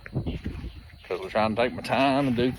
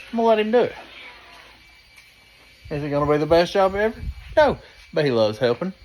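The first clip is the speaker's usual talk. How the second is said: yelling over leaf blower; 3 semitones higher, 4 dB louder, faster than usual. Real, not acted.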